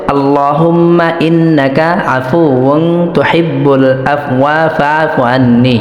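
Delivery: slow, drawn-out Arabic recitation; dua recitation. Shown as a demonstration. Teacher presents the dua to learners, slow recitation. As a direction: recite the dua slowly, stretching the long syllables. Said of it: "তো এটার দোয়া হচ্ছে".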